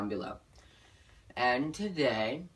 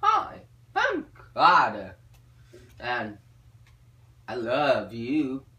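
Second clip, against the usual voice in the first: smooth pickup line; 4 dB louder, slower than usual. Shown as a demonstration. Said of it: "You go".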